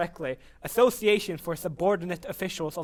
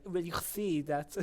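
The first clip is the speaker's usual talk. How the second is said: slow, softer mock French accent; drawn-out imitation of a French accent; imitated French accent; 6 dB quieter, slower than usual. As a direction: put on a light French accent. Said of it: "he just spoke with a French accent".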